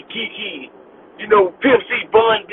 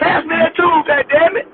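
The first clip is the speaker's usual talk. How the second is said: imitating white coworker; 5 semitones higher than usual. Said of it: "white folks cuss different".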